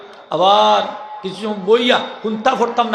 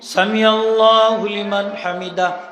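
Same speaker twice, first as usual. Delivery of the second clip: slow drawn-out recitation; slower than usual. Shown as a demonstration. Imam shows when সামি starts, slowly drawn out. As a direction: stretch সামি out slowly as the head rises. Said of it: "সিন শুরু".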